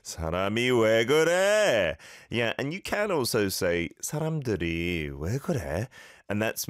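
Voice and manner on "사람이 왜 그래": exasperated. Shown as a demonstration. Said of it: "Here we go".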